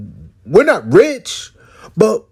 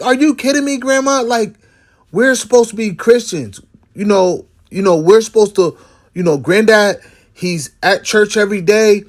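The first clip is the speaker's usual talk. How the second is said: incredulous protest; 2 semitones higher than usual. Retold or imitated. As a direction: act out the younger self who can't believe it. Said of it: "I'm like".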